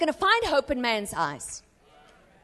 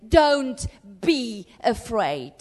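gentle reassurance; 4 semitones lower, much slower than usual. Acted. Jesus calming the frightened disciples.

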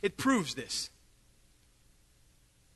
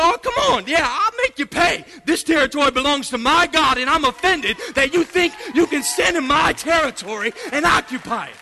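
David angrily taunting; 3 semitones higher than usual. Retold or imitated. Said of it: "he said".

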